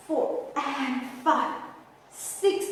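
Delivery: chuckling through the count; laughing. Real, not acted. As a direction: laugh while counting the reps. Counting reps, laughs mid-count.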